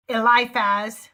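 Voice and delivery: Eliphaz sounded out slowly; careful pronunciation. Real, not acted. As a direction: say Eliphaz slowly, as if reading a phonetic spelling. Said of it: "have to picture the phonetic spelling".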